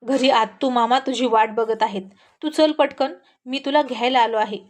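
lightly voiced authority; firm but measured insistence; slightly authoritative. Boy telling the girl he came to fetch her, slightly authoritative. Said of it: "थोडा अधिकारवाणीनं म्हणाला".

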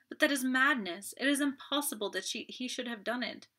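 lightly voiced Marthe in distress; distraught young woman. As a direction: beg the detective, near despair. Marthe pleads with Poirot.

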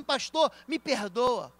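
pleading apology. Retold or imitated. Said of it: "não adianta vir falar assim".

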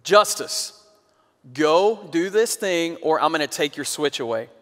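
lightly voiced dad making a threat; mildly stern dad, name called out firmly. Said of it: "I got dad voice on".

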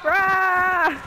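zombie growl. Retold or imitated. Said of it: "Stupid zombie noises".

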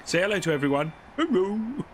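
high cooing pet voice. Real, not acted. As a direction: coo at the dog playfully. Cooing at dog, higher voice.

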